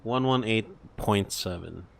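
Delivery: normal talking voice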